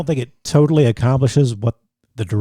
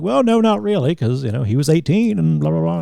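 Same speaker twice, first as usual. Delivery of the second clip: higher-pitched mock brush-off; dismissive imitation; 5 semitones higher than usual. Host asked if he feels bad, lightly mocked as dismissive. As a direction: wave it away in a lightly put-on voice.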